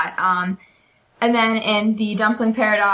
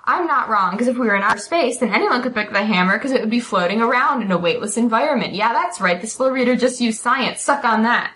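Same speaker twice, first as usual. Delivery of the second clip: triumphant Penny; 3 semitones higher than usual. Retold or imitated. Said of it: "And Penny goes".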